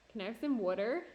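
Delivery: loud South Jersey question, water as WOOD-er; South Jersey accent. Retold or imitated. Imitating South Jersey friends asking for a drink, South Jersey accent. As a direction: ask it like a South Jersey local. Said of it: "friends from South Jersey who say words".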